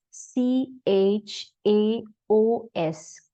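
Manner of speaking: सीएचएओएस spelt letter by letter, very slowly; spelling it out. Shown as a demonstration. Teacher spells out the word for learners, slowly. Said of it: "C H A O S means chaos".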